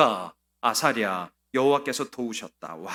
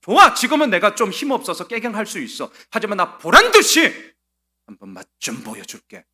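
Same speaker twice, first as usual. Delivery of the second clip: louder, higher, rising defiance; defiant vow; 6 semitones higher, 10 dB louder than usual. Retold or imitated. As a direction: swear you'll show them all. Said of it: "좀 이런 것 좀 있어야". (이를 악물고 보란 듯이 외치는 다짐)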